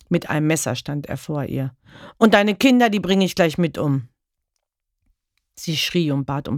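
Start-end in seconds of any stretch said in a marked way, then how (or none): 2.2-4.1 furious threat. Acted. Husband with a knife threatening his wife, furious. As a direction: spit out the threat over the knife.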